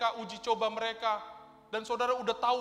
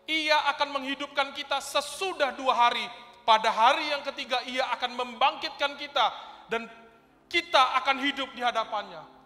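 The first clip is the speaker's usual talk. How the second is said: loud, higher Bible reading; preacher proclaiming scripture; 5 semitones higher, 10 dB louder than usual. Acted. Preacher reading the third-day promise from Hosea, forcefully. Reads scripture aloud to congregation.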